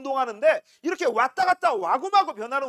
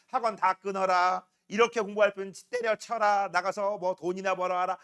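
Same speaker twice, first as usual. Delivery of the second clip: lower, droning list of parental scolding; parental nagging; 5 semitones lower than usual. Acted. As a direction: reel off commands like a fed-up parent. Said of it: "이렇게 잔소리를 하다 보니까". (낮은 목소리로 줄줄 읊는 부모 잔소리)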